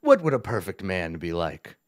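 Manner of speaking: pompous goblin boss, lightly voiced; Yek the goblin. Goblin boss boasts of his perfection to visitors, pompous. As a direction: grandly savor each pause, lightly in character.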